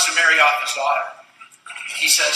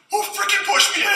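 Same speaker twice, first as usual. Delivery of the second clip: high, laughing indignant question; mock outrage through laughter; laughing punchline; 12 semitones higher than usual.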